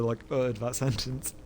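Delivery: ordinary delivery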